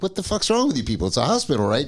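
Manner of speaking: retold exasperated complaint; quick, indignant challenge starting high; irate. Patient and buddy cursing at hospital staff, mock irate. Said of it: "on the getting irate".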